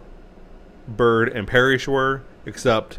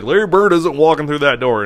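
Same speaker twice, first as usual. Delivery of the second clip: put-on light Boston accent, a bit louder; mock Pitino in a Boston accent; coach's Boston accent, lightly done; imitating Boston accent; 4 semitones higher, 6 dB louder than usual. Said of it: "in his thick Boston accent".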